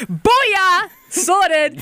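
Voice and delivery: loud, high victory cheer; triumphant gloating. Retold or imitated. Sister boasting to brother about escaping a fine, triumphant.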